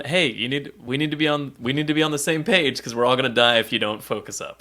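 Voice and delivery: calm and level; steady, not yelling. Retold or imitated. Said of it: "he's not yelling and freaking out".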